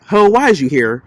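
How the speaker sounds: a lightly voiced brash confrontation; Jocelyn Hernandez voice. Recapping Mary at dinner, lightly voiced Jocelyn impression. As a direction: toss it off like a sassy reality star. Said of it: "In my Jocelyn Hernandez voice".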